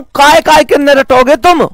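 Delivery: mock a student for rote learning; mock exasperated retort. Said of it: "मैं कहता हूं".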